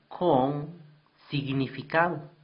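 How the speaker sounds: con set apart with a pause before significado; stress on con. Shown as a demonstration. Teacher stressing con for the class. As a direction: hit con to show the difference. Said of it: "aquí está la diferencia".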